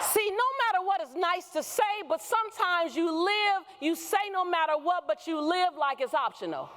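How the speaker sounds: high, lifted preacher voice; preaching. Acted. Speaker preaching to women, high and lifted. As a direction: preach it up to the room.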